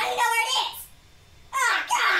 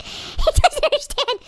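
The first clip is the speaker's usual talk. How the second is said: laughing; 5 semitones higher, slower than usual. Real, not acted. Repeats, laughing.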